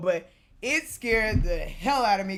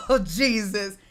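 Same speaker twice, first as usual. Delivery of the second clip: laughing; 4 dB louder, slower than usual. Retold or imitated. Laughing after ride scream.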